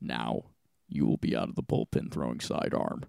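very low, eerie Saw puppet voice; too calm creepy doll. Retold or imitated. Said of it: "you sound like the Saw clown".

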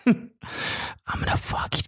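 soft mock-seductive whisper; whispered dirty talk. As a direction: whisper it as pretend pillow talk. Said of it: "whispering it?".

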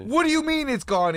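high-pitched stunned disbelief; shocked demand. Retold or imitated. Confronting brother about lost stash.

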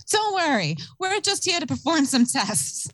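high, hammed-up reassuring alien; creepy alien voice. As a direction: play a falsely soothing alien. Mimicking the alien voice.

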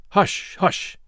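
whispered urgent shushing; urgent hush. A narrator's reading. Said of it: "exclaimed the doctor".

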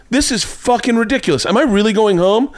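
high-pitched imitation of an angry date; retold indignation. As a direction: mimic her outraged complaint. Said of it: "she immediately gets angry".

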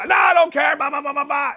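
high retold protest into babble; on their case. Host brushing off producers' help, on their case. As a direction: cut in heatedly, trailing into mock blah-blah ranting. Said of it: "I'm all over Ryan and Dylan".

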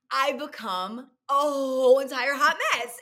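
half laughing at herself, slowed down. Real, not acted. Laughing at own confession.

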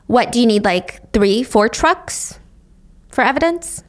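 mock-helpful police sarcasm; questioning, halting, mildly sarcastic. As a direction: lightly imitate a sarcastic officer's offer. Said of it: "they sarcastically added".

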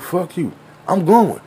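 mock a mouthy child's comeback; defiant little kid. Kid defying his friend in a retold street game, mock defiant. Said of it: "the other little nigga's like".

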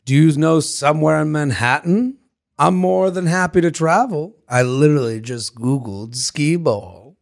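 creepy, badly faked British; shaky British accent. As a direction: attempt a British accent and miss. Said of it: "I'm not sure if that was British".

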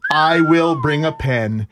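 very slow, word by word; laboured line-writing. Retold or imitated. Pupil writing punishment lines with a fingernail, slow and laboured. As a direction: draw it out as if scratching each word.

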